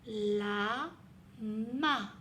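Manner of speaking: La and ma said separately with a pause; syllables split apart. Shown as a demonstration. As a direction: break the word into La, ma. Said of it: "je l'entends à la fin du mot".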